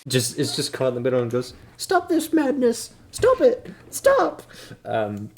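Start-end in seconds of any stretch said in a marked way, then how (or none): 1.8-4.4 very high, loud, frantic pleading; frantic cleric. Acted. Cleric caught in the middle begs them to stop, frantic. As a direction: cry out in high-pitched panic.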